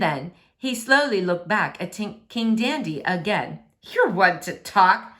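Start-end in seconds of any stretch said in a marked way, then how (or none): 3.8-5.1 slow, louder sneer; mild sneer. Acted. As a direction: sneer it back at the king. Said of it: "said Prince Hemp with a sneer".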